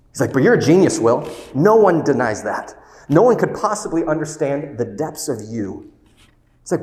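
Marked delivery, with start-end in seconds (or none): 0.3-5.9 louder and higher, pushing the point hard; raised voice. Retold or imitated. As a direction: drive each line home with force. Therapist lectures Will, retold.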